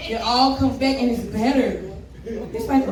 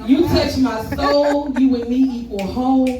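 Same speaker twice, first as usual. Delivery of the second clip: spoken word poem. Acted. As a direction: open mic love poem. Recites a love poem on stage.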